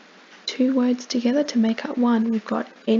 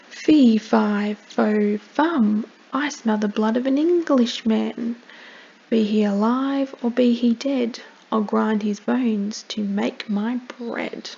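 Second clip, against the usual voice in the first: a hint of a menacing giant, louder on fee; scary angry giant; 3 dB louder than usual. Giant sniffs out Jack, mildly menacing voice. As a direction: chant it like a lightly voiced hungry giant. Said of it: "he looks a bit scary and a bit angry".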